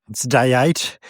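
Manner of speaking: ordinary talk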